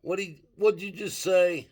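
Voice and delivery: high, loud, incredulous question; loud double-take at what was just heard; retold disbelief. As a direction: act out baffled disbelief, pitched right up. Retold reaction to brother's accent.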